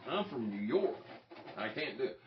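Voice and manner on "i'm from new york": put-on light, tentative stab at a New York accent; raised-pitch mock New Yorker line; attempted New York accent. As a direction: try a New York accent, not quite landing it. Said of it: "I can't do the accent".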